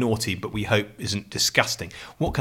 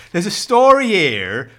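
slow, louder West Country yokel read; a hammed-up West Country newsreader; mock rural West Country voice reading the paper; mock West Country accent; 6 semitones higher, 5 dB louder, slower than usual. Shown as a demonstration. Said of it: "I shouldn't read it in this voice".

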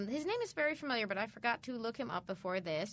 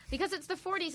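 a brief attempt at a British accent; 7 semitones higher than usual. Shown as a demonstration. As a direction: try a British accent, then drop it. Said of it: "I'm gonna stop trying to do the accent".

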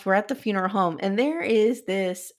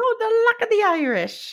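put-on Irish accent; 13 semitones higher, 3 dB louder than usual. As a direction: ham up an old Irish granddad. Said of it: "that's so Irish".

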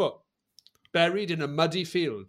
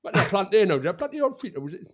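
a hint of Geordie farmer scratching his head; Geordie accent; 3 semitones higher, faster than usual. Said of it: "You can do your accent again".

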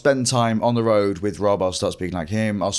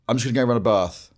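put-on southern accent; faster than usual. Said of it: "turning southern".

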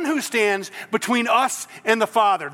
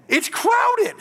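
sarcastic; 12 semitones higher than usual. Acted. Sarcastic answer to Jesus' question.

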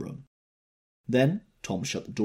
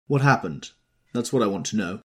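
forceful demand; 4 semitones higher, 8 dB louder than usual. A narrator's reading. Tom demanding answers.

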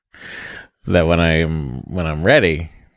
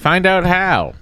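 mock announcer shout; 12 semitones higher, 4 dB louder, slower than usual. Mock ad slogan.

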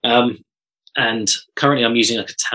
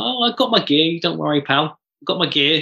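higher, breezy don't-worry voice; mock cheery reassurance; 5 semitones higher than usual. Telling Pat Cash he has his gear, mock cheery. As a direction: brush it off cheerfully, pitched up.

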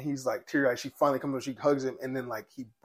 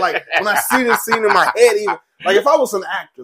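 passionate; 7 semitones higher, 12 dB louder than usual. Real, not acted. Passionate about a crying scene.

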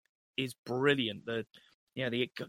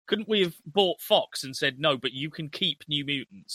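mock-dismayed, pitched-up complaint; exasperated; 3 semitones higher, 4 dB louder than usual. Studio executives regretting the deal, mock-exasperated. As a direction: moan as if stuck with a dud. Imagines studio groaning about inherited film.

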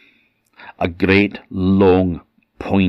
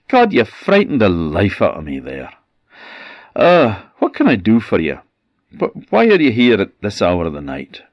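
a touch higher, hurried and rattled; nervous, stumbling questions; shaken and nervous; 4 semitones higher, 4 dB louder, faster than usual. Acted. Startled man questions intruder.

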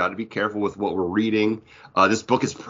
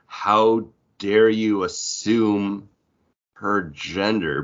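slow, affronted how dare you; hammed-up indignant gasp; mock outrage; much slower than usual. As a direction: play at being scandalized. Mock outrage, quoting a trope.

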